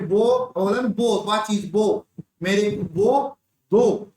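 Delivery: put-on slow, stretched baby talk; lisping toddler voice. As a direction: coax it out like a small child asking for sweets. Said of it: "तोतली आवाज में बोल रहा है". (तोतली आवाज़ में धीमे, खिंचे हुए शब्द)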